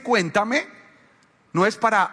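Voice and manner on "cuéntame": "cuéntame" rising sweet-talk, less high; mock sweet "cuéntame". Shown as a demonstration. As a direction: lilt "cuéntame" up. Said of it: "Ese cuéntame". ("cuéntame" meloso)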